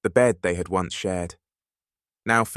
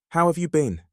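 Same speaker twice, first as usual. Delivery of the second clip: mildly gentle ask, pitched higher; gentle, casual question; 6 semitones higher than usual. A narrator's reading. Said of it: "Eric asked gently, his tone casual".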